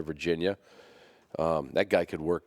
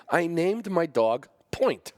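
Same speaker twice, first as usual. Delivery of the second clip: higher, slow, amused exaggeration; mock disbelief; 10 semitones higher, 3 dB louder, slower than usual. Shown as a demonstration. Owner mocking his own choice of dog name, slow and high. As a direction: stretch it out in comic disbelief. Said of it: "That's a terrible name".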